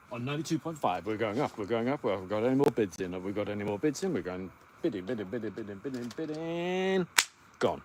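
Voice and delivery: mock auctioneer patter, fast in the middle. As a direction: rattle off bids like a light-hearted auctioneer. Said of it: "I sound like an auctioneer".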